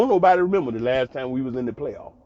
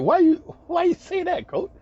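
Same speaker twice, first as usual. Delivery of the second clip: retold puzzled question; 13 semitones higher than usual. Puzzled player questioning his coach, laughing.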